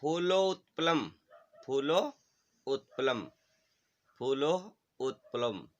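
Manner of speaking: word-by-word Sanskrit model from फूलोत्पलम to भक्षिष्यामि, with pauses to repeat; pronunciation demo. Shown as a demonstration. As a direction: say each word distinctly for pupils to echo, splitting फूलो / उत्पलम. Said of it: "उच्चारण कीजिएगा इनका".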